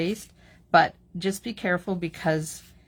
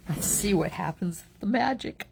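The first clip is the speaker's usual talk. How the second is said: excited; 3 semitones higher than usual. Real, not acted. Reveal of embossed card.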